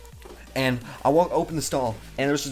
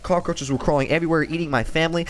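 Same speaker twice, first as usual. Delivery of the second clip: mock horror tale; 4 semitones higher than usual. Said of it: "just kidding".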